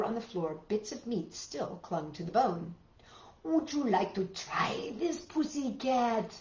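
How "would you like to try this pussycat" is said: coaxing Julia. Acted. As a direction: gently tempt the cat with the platter. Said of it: "said Julia".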